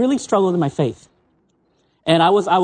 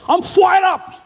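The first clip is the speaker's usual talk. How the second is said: high, imitated Malaysian Singlish "fired up"; Singlish accent; 11 semitones higher, slower than usual. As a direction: mimic a Singlish friend's "fired up". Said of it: "they call it Singlish. You know, they got an accent".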